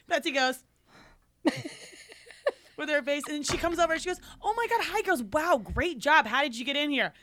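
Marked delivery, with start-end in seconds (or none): 4.4-7.1 mock gushing, starting high and sinking; fake-nice greeting. Club rival greeting the girls she tried to keep out, fake-nice. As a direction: greet them with put-on delight.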